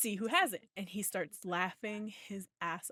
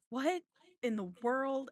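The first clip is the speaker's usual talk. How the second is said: higher-pitched, incredulous retold reply; bewildered; 5 semitones higher, slower than usual. Dad answering a random phone question, bewildered. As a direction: react to a baffling question.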